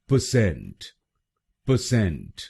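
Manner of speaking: परसेंट as pə-SENT, drilled several times; correct pronunciation repeated. Shown as a demonstration. Teacher drilling students on correct परसेंट. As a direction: repeat परसेंट with a weak first syllable, pə-sent. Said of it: "तो बनेगा".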